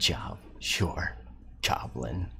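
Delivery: scoffing, dismissive, contemptuous tone. Voicing a character who scoffs at a goblin: scoffing, dismissive. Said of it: "She kinda looks at you and scoffs".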